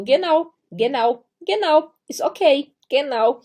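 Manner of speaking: mock eager learner. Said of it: "Vocês vão ficar respondendo".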